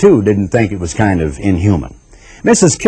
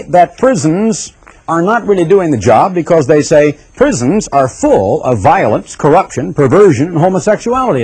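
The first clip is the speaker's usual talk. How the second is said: higher, mocking list of their complaints; mocking their claim; 6 semitones higher than usual. Preacher mocks the critics of prisons, scornfully higher. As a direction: parrot what they say with scorn.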